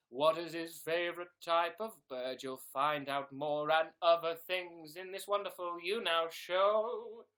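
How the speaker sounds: booming show promo; mock announcer. Announcer promoting the streamer's show, loud and sustained. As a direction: project it like a trailer announcer.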